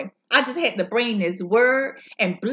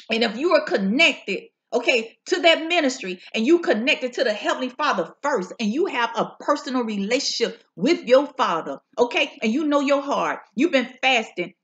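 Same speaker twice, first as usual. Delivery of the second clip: fervent preaching cadence, rising on key words. Acted. Preacher testifying to the viewers, fervent preaching. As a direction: preach the word to the congregation.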